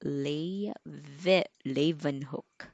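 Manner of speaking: Leeuwenhoek as "LEH-ven-hook", stress up front; teacher models the stressed first syllable. Shown as a demonstration. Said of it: "the stress is on the first syllable".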